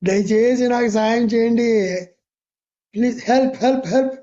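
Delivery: imitated panicky pleading; mock frightened plea. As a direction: act out a scared man begging for rescue. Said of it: "ఇక ఈడికి భయం వేసిపోతుంది".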